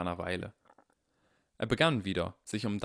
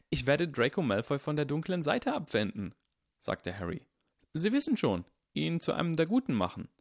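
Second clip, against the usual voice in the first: put-on Harry, young and eager, lightly higher; earnest boy insisting he's right; voiced young Harry; 7 semitones higher than usual. Young Harry correcting the headmaster, lightly higher and eager. Harry explains his plan.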